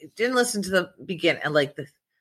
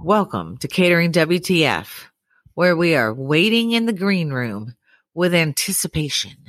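sultry radio voice. Acted. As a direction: lay on the smooth announcer voice. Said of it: "you're trying to do a fucking sultry voice".

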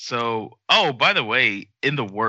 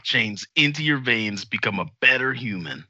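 commercial voice. Pretend. Host improvising a blockchain slogan, hammed-up commercial voice. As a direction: sell it like a tagline. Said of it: "Here's my commercial voice".

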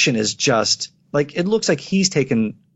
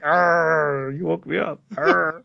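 growly grumpy bear voice; bear impression; 3 semitones higher, much slower than usual. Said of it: "my bear impression".

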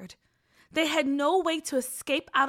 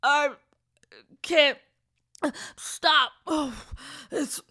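in a trance; 3 semitones higher, 8 dB louder, slower than usual. Acted. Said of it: "kind of in a trance".

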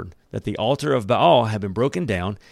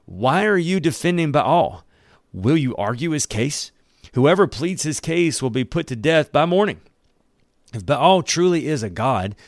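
a touch of raised, higher defiance; mild shout; 4 semitones higher than usual. Acted. Joash defying the mob that wants his son dead, mild raised voice. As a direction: push back at the mob without truly yelling. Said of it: "Joash shouted at".

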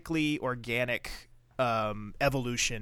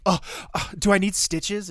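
mock whiny, higher and louder; mock him as a big baby; whiny Carter; 8 semitones higher, 6 dB louder than usual. Host mocking Carter's fuss over a cut, whiny voice. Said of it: "He's such a little bitch here".

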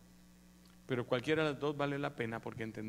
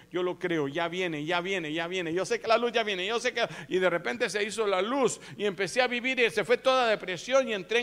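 loud testimony building to a high shout; fervent, driving pulpit delivery; impassioned preaching; 5 semitones higher, 9 dB louder than usual. Real, not acted. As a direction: preach with mounting urgency and conviction. Preaches testimony at mounting force.

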